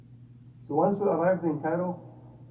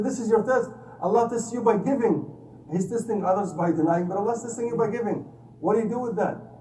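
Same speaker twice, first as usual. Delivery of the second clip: higher and louder, driving the point home; raised emphatic voice; 6 semitones higher, 3 dB louder than usual. Retold or imitated. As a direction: preach it with rising force. Emphatic retold reply to doctor.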